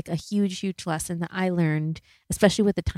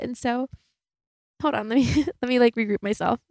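tearing up; 4 semitones higher than usual. Real, not acted. Host tearing up telling listeners about surprising her dad, choked up. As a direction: voice lifting as real tears come, pausing to regroup. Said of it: "I'm, like, tearing up even talking about it".

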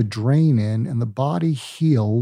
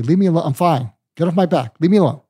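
put-on higher, louder teen snapping at parents; pushy angry teen; 5 semitones higher, 3 dB louder, faster than usual. Pushy teen snapping at worried parents, louder and higher. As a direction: push the parents away with a rising yell. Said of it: "imagine that you're a pushy, angry adolescent".

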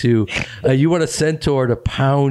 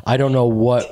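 stoned. Real, not acted. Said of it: "because I'm so stoned right now".

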